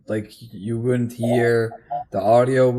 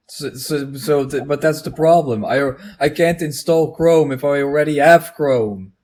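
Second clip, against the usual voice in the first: higher and louder, worked up; exasperated explaining; 3 semitones higher, 5 dB louder than usual. Real, not acted. Explaining to friend the Chrome loop, worked up and louder. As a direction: insist on the absurdity.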